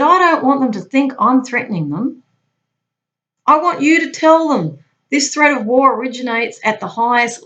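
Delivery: emphatic boss laying down the message; retold screaming boss. Boss ordering the agent to pass on a war threat, forcefully. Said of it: "so he's screaming now".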